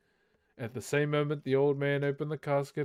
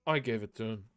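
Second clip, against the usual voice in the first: squeaked; 4 semitones lower, faster than usual. Acted. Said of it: "squeaked Bilbo".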